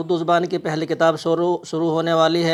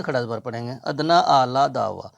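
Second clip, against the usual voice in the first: slow model reading; 4 semitones lower than usual. Shown as a demonstration. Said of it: "या को नहीं पढ़ेंगे".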